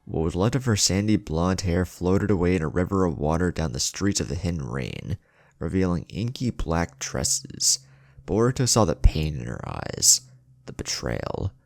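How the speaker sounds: dramatic storyteller reading an action scene; story narration. A narrator's reading. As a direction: read it like an audiobook battle chapter. Reads fan fiction aloud.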